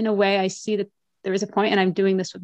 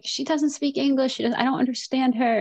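imitated complaining mother; 5 semitones higher than usual. Voicing her mother's complaint.

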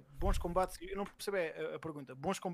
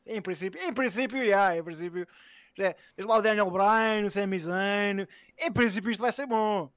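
loud, drawn-out mock prophecy; mocking prophet; 2 semitones higher, 8 dB louder than usual. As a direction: ham it up like a know-it-all seer. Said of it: "Mais um profeta". (profeta trocista)

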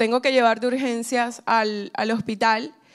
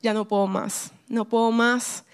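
tearful plea; 2 semitones lower than usual. Retold or imitated. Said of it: "y yo estaba llorando".

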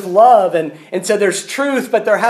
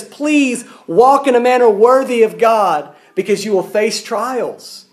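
earnest, higher-pitched appeal; acted apostle urging his people; 4 semitones higher than usual. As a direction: press the plea, slowing at the end. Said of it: "he urges them".

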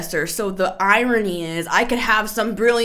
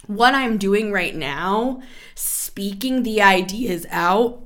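voice cracking; slower than usual. Real, not acted. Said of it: "my voice is cracking like a, a twelve-year-old boy".

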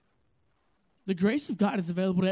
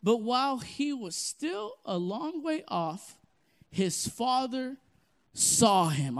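slow, weighty read with stress on saw; slow dramatic reading; 3 semitones higher, slower than usual. Shown as a demonstration. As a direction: read it slowly, savoring every word. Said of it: "I'm gonna pause right there".

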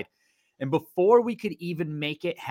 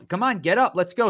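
higher, louder push to get up; rally her like a cornerman; lightly acted coach yelling get up; mock coach urging; 5 semitones higher, 3 dB louder than usual. Coach urging fighter to continue.

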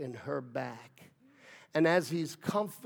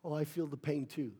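mock martyr; 5 dB quieter, faster than usual. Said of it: "made yourself a martyr".

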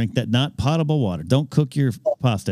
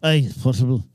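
put-on "potable" in a playful Scottish accent; mock Scottish accent. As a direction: put on a light Scots voice. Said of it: "has a better Scottish accent".

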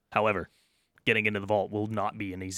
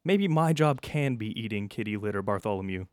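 higher, stammering first-day worker; nervous new guard; 5 semitones higher than usual. Acted. New vault guard on his first day, worried and higher-pitched. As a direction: fumble the words like a worried rookie guard.

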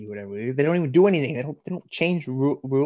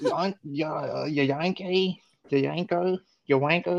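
mock British; 3 semitones higher, slower than usual. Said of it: "I can't do accents".

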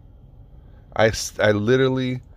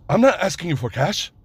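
higher-pitched, shaky attempt at a Middle Eastern accent; bad Middle Eastern accent; 9 semitones higher than usual. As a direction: imitate him in a clumsy Middle Eastern accent. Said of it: "I'm doing the fucking accent, the shitty accent".

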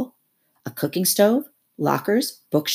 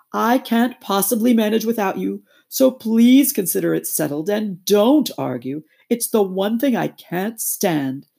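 higher, loud wheedling toad voice; lightly raised pleading Toad; coaxing Toad; 4 semitones higher, 4 dB louder than usual. Acted. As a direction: talk him round at all costs.

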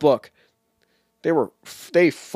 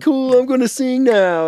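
mock Pippin; 12 semitones higher, 5 dB louder than usual. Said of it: "He's like".

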